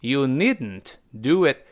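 NEEDN'T released through the nose, no vowel before n; slow model with "need-n't" burst nasally; NEEDN'T slowly, d exploding straight into n; nasal plosion. Shown as a demonstration. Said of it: "这needn't用了个鼻腔爆破啊".

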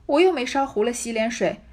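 我又没烧糊了洗脸水 said loud in wronged protest, stress on 又; hurt girl crying back at her aunt, stress on 又. Acted. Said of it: "哭道". (委屈哭诉“我又没烧糊了洗脸水”，重读“又”)

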